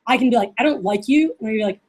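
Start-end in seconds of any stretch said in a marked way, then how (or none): 0.6-1.3 mildly mean, serious tone. Shown as a demonstration. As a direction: state the dislike seriously, without a smile. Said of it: "but in a mean voice".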